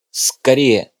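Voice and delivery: loud, urgent hurry-up call; urgent shout. Acted. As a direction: yell at her to move. Urging Marta to run.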